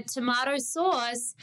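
TOMATO with an AH, SAUCE long and sounding like source; slow Australian TOMATO SAUCE, tom-AH-to; Australian pronunciation. Shown as a demonstration. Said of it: "So in Australia".

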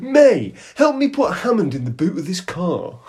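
high, loud call to a co-host; mock presenter shout. Presenter calling May for help, hammed-up shout. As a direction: call out the name sharply, then explain.

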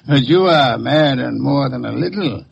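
laugh, then mock him; amused taunt. Detective laughing at the cornered killer, mocking. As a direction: gloat with a chuckle over the suspect.

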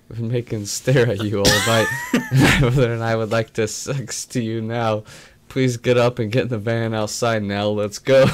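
put-on cheesy Russian accent come-on. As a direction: play a creepy Russian flirt, lightly. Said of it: "in a Russian accent".

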